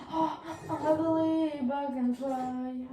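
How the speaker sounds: loud frustrated outburst; frustrated yell. Real, not acted. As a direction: yell at the game. Gamer raging at the game. (cri d'énervement)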